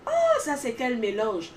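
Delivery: loud, slow exclaimed question; retold exclamation, loud then easing off; mock shout. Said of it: "les gens criaient toujours sur moi".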